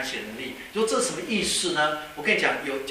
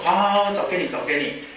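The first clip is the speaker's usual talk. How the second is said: sighing resignation; 2 semitones higher than usual. Acted. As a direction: give in with an acted sigh. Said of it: "叹了一口气".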